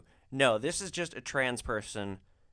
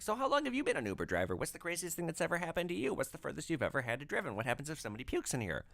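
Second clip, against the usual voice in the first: chatty passenger; 5 semitones higher, faster than usual. Retold or imitated. Imitating chatty passenger questions.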